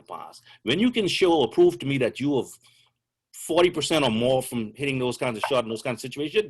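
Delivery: mock-courteous but stern scolding; mock polite lecture. Coach tells a ball-hogging teammate off, mock polite. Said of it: "what I would say to him politely".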